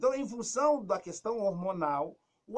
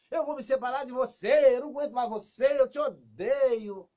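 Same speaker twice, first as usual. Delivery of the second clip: higher, louder furious outburst; mock angry outburst; 5 semitones higher, 9 dB louder than usual. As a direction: blurt it out in a rage. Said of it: "que que acontece com a pessoa?". (explosão de raiva encenada)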